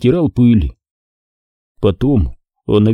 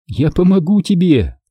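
Kira's voice; 7 semitones higher than usual. A narrator's reading.

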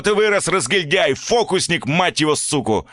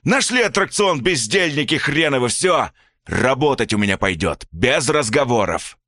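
furious father; 8 semitones higher than usual. A narrator's reading. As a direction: rage at the boy, then turn on the mother. Father lecturing about work.

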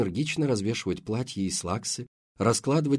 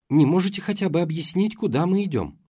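breathless demand; 8 semitones higher, 5 dB louder than usual. A narrator's reading. Running, Dayana demands answers.

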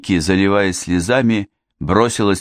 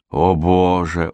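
gasping oh; slower than usual. Acted. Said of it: "охнула Мэри".

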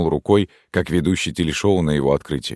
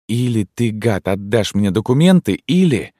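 high, louder furious threat; hissing threat; 6 semitones higher, 4 dB louder than usual. Acted. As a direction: threaten him, rising to a snarl. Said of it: "зашипела девушка".

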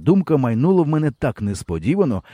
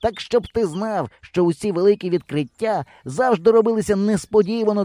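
high, lightly voiced know-it-all; a boy lecturing his doubters; 8 semitones higher than usual. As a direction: preach about geniuses. Hero lecturing.

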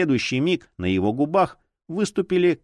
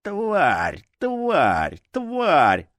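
rising furious cries of pain; pained cursing; 6 semitones higher, much slower than usual. Acted. Broken hand, cursing.

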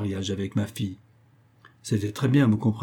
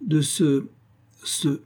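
gasping; 5 semitones higher, much slower than usual. Acted. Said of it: "par hoquets convulsifs".

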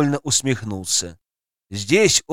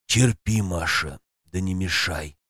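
dragon voice; 7 semitones lower, 5 dB quieter than usual. Acted. Dragon Zmey speaks.

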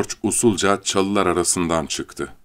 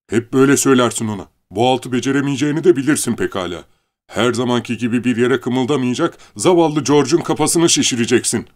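sharp, fast scolding aunt; harsh; 5 semitones higher, 4 dB louder, faster than usual. Acted. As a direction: scold him hard and fast. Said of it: "Kadın sertçe". (sert ve hızlı azarlayan teyze)

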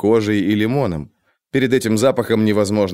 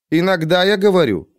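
aloof tree creature, pleased with itself; a dry superior quip; talking tree; 7 semitones higher than usual. A narrator's reading. The Cthaeh speaks.

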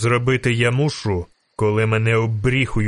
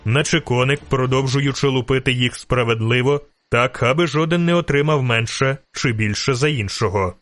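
ordinary delivery

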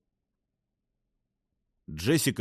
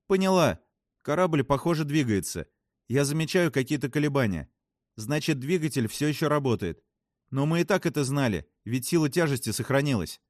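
lightly voiced spacewoman, higher pitch; astronaut reporting back; 5 semitones higher than usual. Voices a story character. (докладывает, слегка повышенным голосом)

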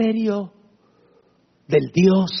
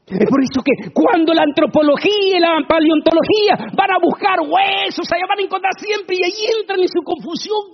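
fiery preaching; 12 semitones higher than usual. Acted. Preacher lifting the congregation with fiery preaching. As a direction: build the sermon to a cry. Preacher rising to full force.

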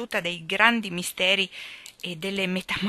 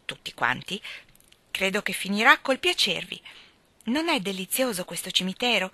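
put-on lively, light young woman's voice; a flighty girl gossiping breezily; lightly voiced chatterbox girl; chatty girl; 2 semitones higher than usual. Phil describing herself.

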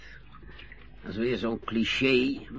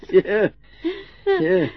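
chuckling yes through a laugh; 5 dB louder than usual. Acted. Old captain laughing off the carer's joke about sweethearts. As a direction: giggle out the yes, amused. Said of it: "Waarom lacht u nou?".

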